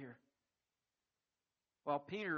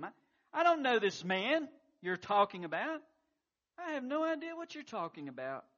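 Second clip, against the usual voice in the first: loud, high, desperate oath; swearing denial; 10 semitones higher, 10 dB louder than usual. Acted. Peter swears to bystanders, loud panicked denial. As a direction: shout the denial, cornered and swearing. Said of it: "he swore to them".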